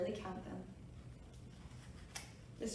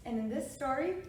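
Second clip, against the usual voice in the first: usual speaking voice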